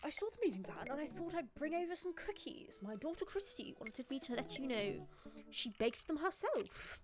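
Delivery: lightly put-on friendly dad voice; a hint of a cheery neighbour dad; Joseph's voice. Joseph the neighbour dad greeting, lightly voiced. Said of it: "That's his voice now".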